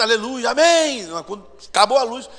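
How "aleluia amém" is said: loud, slow praise, short of a scream; less shouted praise. Retold or imitated. Church crowd while the lights are on, restrained praise. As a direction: praise loudly but hold back the scream. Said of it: "o pessoal não grita".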